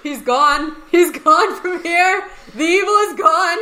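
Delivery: imitated yelling. Echoing the film's line to co-hosts, imitated yelling. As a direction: cry it out high, imitating the film character. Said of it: "he's yelling about evil".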